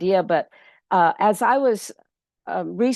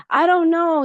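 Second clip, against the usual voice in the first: mock panic; 10 semitones higher, 5 dB louder than usual. Pedro feigning panic about pigs.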